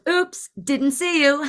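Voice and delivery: high, slow singsong false innocence; mocking taunt. Older woman to the driver she cut off, mocking. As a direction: taunt with mock innocence, drawn out. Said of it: "she goes, laughs".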